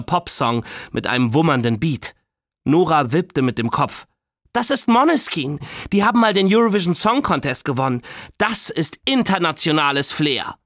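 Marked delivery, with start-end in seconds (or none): 4.5-10.5 put-on proud girl. A narrator's reading. Nora shows off her song.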